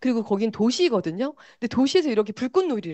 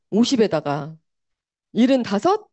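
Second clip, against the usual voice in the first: Chungcheong grandpa; 3 dB louder than usual. Retold or imitated. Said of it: "충청도 사투리로 할아버지 할머니의 대화예요".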